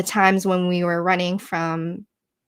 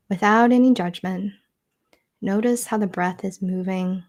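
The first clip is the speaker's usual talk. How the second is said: measured meditation guide, long pauses between phrases; guided meditation. Acted. Teacher guiding listeners through three breaths into stillness, guided meditation. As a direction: lead listeners gently through each breath, leaving room to breathe.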